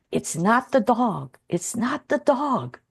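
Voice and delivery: slow, drawn-out calm refrain; unhurried inner mantra; peaceful repeated thought. Retold or imitated. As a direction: repeat it slowly, like a calming thought. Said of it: "like, at peace".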